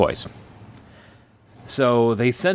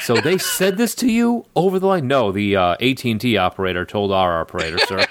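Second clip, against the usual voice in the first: acted dialogue. Acted phone call dialogue.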